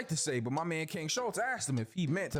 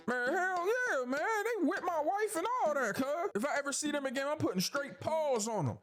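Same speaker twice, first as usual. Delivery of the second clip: hyped-up threat; 9 semitones higher than usual. Pretend. Django vows revenge on overseers.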